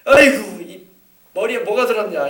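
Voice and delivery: mother scolding her son; exasperated scolding. Retold or imitated. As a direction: sigh it out at the child, loudly. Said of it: "엄마가 또 아들한테도 그렇고".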